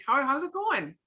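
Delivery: a caring pause-and-ask greeting; concerned check-in. Shown as a demonstration. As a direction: lean in and really ask. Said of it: "you give 'em that".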